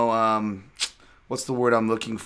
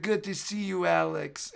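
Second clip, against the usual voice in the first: detached greeting; 5 semitones higher, 5 dB quieter, slower than usual. Retold or imitated. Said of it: "He's like".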